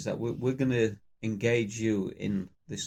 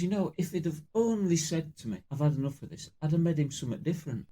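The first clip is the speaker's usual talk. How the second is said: higher-pitched, lightly acted tearful wife; mock sobbing; 5 semitones higher than usual. Scottish widow at her husband's funeral, mock sobbing. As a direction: plead like a joke's grieving widow. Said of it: "Scottish wife's sobbing".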